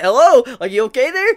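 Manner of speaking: high, loud comic check-in; imitating a puzzled are-you-okay; questioning call. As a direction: call out to someone knocked out. Imitating Jack calling to knocked-out Ashi.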